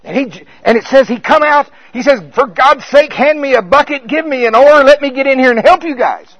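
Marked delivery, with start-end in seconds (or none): 2.3-6.3 loud high hammed-up panic; mock frantic Jesus. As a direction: play him as just as scared. Jesus mocked as joining the panic.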